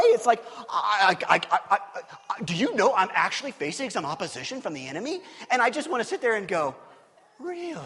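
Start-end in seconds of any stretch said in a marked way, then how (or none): 0.7-5.2 mock-stunned stammer; blown away. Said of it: "they're like, they're blown away". 7.4-7.8 high, softer mock-incredulous squeal; jerky disbelief. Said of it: "that's the flesh jerky part of me".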